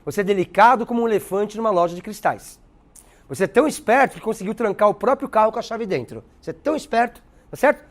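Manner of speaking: mock praise with a sarcastic edge. Teacher giving examples of ironic insults, sarcastic. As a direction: lay the fake compliment on thick. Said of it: "A ironia e o sarcasmo".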